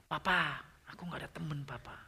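soft, fading retelling of a crying daughter; retold tearful complaint. Daughter confiding to her father in the car, mildly tearful. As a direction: quietly imitate a child's sad confession to Papa. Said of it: "dia nangis di mobil".

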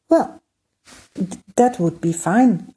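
a jump up in pitch on well, then gladly; light, delighted burst of relief; happy outburst. Acted. Prince Emir glad to hear a god can help, a happy jump in pitch. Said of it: "Emir cried happily".

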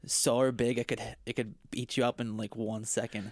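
lightly put-on Aussie wildlife host; playful Australian accent. Shown as a demonstration. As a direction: marvel at it as a mock Australian. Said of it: "I wanna hear your Australian accent".

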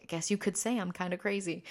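ordinary talk

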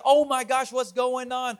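high-pitched retold bewilderment; mock panic. Pastor replaying losing his keys, mock panicked. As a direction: act out a mild fluster, pitch up.

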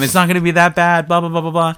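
breezy British lilt, talking himself into it; mock British accent. Friend quoting Jerry reassuring himself in a light British accent. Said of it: "why he's British to me".

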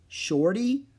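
high offended echo; indignant question. A narrator's reading. Jack offended by nickname.

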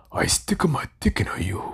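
mock Japanese porn actor. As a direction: put on a hammy Japanese accent, hushed. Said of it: "the guys in the porno".

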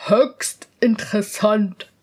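slow, solemn lady; stately mistress of the court. Acted. The mistress of the court agrees, slow and grave. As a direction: pronounce it gravely. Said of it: "sagte die Oberhofmeisterin".

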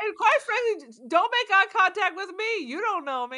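high, suspicious mock warning; mock wary warning. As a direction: pitch it up like a paranoid stranger. Playful warning not to look.

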